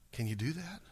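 ordinary talk

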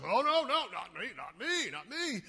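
high, loud flustered denial fading down; panicked denial. Retold or imitated. Peter caught by the accuser, panicked high denial. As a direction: deny it in a panic. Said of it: "And Peter goes".

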